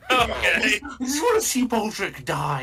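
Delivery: high, slow laughing words. Real, not acted. Laughing with the table.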